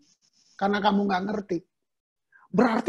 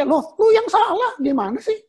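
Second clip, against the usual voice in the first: higher, louder half-laughing scold; amused loud rebuke of the sick friend; 8 semitones higher, 6 dB louder than usual. Retold or imitated. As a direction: tease him that it's his own fault. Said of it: "saya korek ya".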